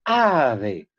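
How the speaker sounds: ave with a long stressed opening A; AAA-ve, accent up front; stressed first A. Shown as a demonstration. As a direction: draw out the A at the start of ave. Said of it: "otra palabra iniciada con A tónica".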